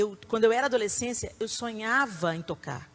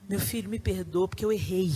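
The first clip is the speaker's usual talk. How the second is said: gentle apology; 4 semitones lower, 4 dB quieter than usual. Shown as a demonstration. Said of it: "Peça perdão".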